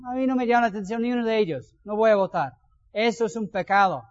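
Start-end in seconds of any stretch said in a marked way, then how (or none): 0.1-2.5 fast, dismissive voice of an indifferent voter, lightly voiced; a hint of an uninterested voter waving off the vote; mock voter. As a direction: brush off the election in a fast, careless voice. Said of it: "Y no digas".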